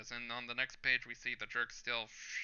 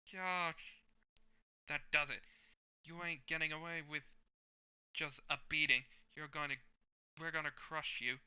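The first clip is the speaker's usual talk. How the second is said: menacing thug; 5 semitones higher than usual. Acted. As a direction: sneer every threat like a gloating thug. Thug threatening the kid.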